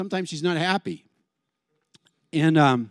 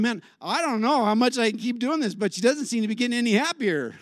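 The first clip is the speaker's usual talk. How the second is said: higher-pitched, baffled complaint; exasperated husband; 5 semitones higher than usual. Acted. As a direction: plead that you can't keep this up. Acted husband at a loss.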